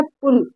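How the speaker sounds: "पुल" as one brief syllable, short oo; teacher's demo of short-vowel "पुल". Shown as a demonstration. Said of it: "छोटा ऊ करके पढ़ेंगे".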